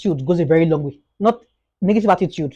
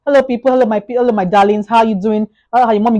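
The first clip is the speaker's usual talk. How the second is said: cheerful greeting; 4 semitones higher than usual. Retold or imitated. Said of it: "When it comes to your house".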